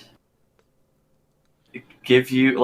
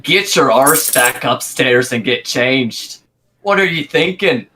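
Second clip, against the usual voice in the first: scolding; 3 dB louder, slower than usual. Acted. Barkeep scolds in character.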